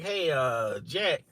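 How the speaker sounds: hesitant, drawn-out question with pauses; creeping in cautiously. Retold or imitated. Coworker carefully broaching Jack's new accent, tentative. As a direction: ease into it carefully, a little softly. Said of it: "creep it in slowly to Jack".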